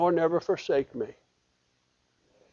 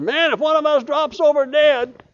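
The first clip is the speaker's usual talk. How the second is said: much higher quoting voice; retold joke; 9 semitones higher than usual. Preacher quoting a friend's joke about dropping dead. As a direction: toss off the friend's quip in a higher voice. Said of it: "somebody said".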